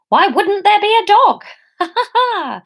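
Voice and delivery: high, giddy laugh at the absurdity; manic laugh. Acted. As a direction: laugh like she's losing it. Laughs at her own situation.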